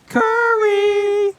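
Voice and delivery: hyped yell of a basketball name; shouting Curry. Real, not acted. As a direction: belt the name out like a highlight.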